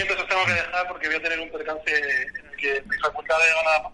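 muffled voice over the phone; voice from beyond the grave. Real, not acted. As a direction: talk down a bad phone line. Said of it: "Esta voz de ultratumba que está aquí".

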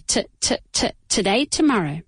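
"t" as short tuh, carried into "today, tomorrow"; soft neutral vowel. Shown as a demonstration. Teacher drilling both words, "today, tomorrow" starting on a short tuh. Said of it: "se pronuncia como si fuera".

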